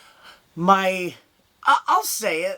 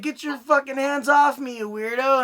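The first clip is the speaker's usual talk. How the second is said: mock shout; 6 semitones higher than usual. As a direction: yell it like a creeped-out audience member. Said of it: "the front row is gonna be like".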